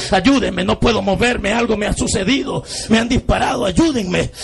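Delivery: begging for rescue, pitch rising; dying man's rising pleas; desperate begging. Retold or imitated. Wounded man begs strangers.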